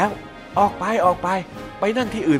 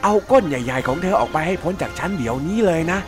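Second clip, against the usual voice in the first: angry yell; 4 semitones lower than usual. Acted. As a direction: shout at her to get off, hurt and annoyed. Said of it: "เสียงร้องตะโกนออกมาว่า".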